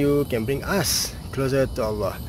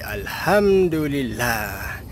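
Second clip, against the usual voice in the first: slow, reverent; much slower than usual. Shown as a demonstration. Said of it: "you will say".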